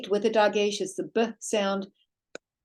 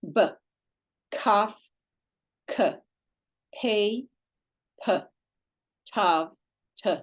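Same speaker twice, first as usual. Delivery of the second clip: letter name then its sound, each set apart; teacher drilling the dagesh sounds; drill repetition; 2 semitones higher, slower than usual. Shown as a demonstration. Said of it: "So let's just repeat this".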